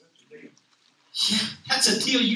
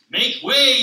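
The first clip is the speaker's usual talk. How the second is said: louder commanding call; haughty limo; 5 semitones higher, 9 dB louder than usual. Acted. Limousine ordering traffic aside, loud and proud. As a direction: clear the road, self-important.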